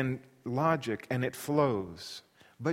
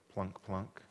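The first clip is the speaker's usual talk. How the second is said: imitated plucked string; 7 semitones lower, 10 dB quieter than usual. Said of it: "on my instrument".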